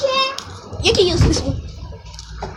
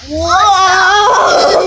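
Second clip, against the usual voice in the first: excited gasp. Real, not acted. Gasp and shout at tornado.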